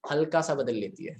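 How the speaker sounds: हल्का set apart and emphasized; stress on हल्का. Real, not acted. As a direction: repeat it with weight on हल्का. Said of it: "stress दे रहा हूं मैं".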